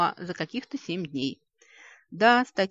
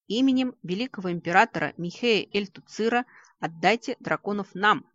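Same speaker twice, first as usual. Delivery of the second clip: loud, higher roar of a demand; 4 semitones higher, 5 dB louder than usual. Acted. The shaggy orc leader demands the dragons, roaring. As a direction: roar it as the biggest rider. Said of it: "проревел самый крупный и лохматый".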